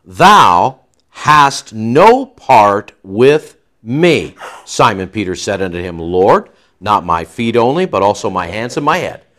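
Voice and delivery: slow, weighty scripture reading; King James reading. Acted. Preacher reading Jesus' words from the King James, slow and weighty. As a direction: draw out each word like reading the King James. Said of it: "Jesus answered and, and said".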